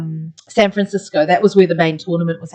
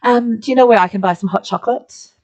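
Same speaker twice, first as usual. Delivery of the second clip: put-on polite question in a New Zealand accent; 3 semitones higher than usual. Tourist asking attendants for hot chocolate, New Zealand accent. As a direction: ask it in your own Kiwi accent. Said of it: "in my New Zealand accent".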